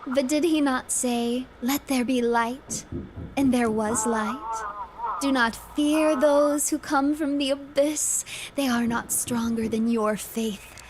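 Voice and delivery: solemn sermon voice to the congregation; preacher. Acted. Preacher calling his brothers and sisters to faith. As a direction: preach it steadily, like from the pulpit.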